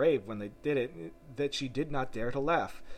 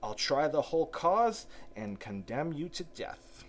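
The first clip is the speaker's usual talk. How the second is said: cunning villain; 4 semitones higher than usual. Acted.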